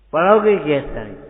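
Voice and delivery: loud, demanding rhetorical challenge; stern teacher shout. Retold or imitated. Old teacher to a lazy pupil, loud stern demand. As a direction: bark it like a strict guru.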